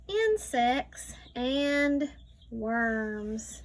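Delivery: slow, careful read-aloud; reading to a child. Acted. Teacher reading a farm book to a child, slow read-aloud. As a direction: read each word slowly for a young learner.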